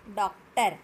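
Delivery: डॉक्टर with rounded o, in two syllables; correct pronunciation model. Shown as a demonstration. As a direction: sound out dok-ter in डॉक्टर. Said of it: "क्या बोलना है?". (डॉक्टर, गोल ऑ के साथ)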